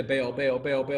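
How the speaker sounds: mock repetitive pagan chant; imitated babbling. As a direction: rattle off the repeated name. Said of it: "do not go on babbling like the pagans".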